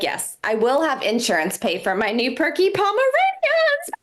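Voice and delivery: mock-proud retort ending in a high dog-like yelp; comic reply breaking into a little-dog squeal; yappy Pomeranian sound. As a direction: pitch it up, then yap the last word. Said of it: "That's the sound they'll make".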